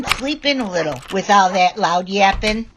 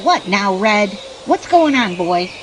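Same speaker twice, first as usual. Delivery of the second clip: usual speaking voice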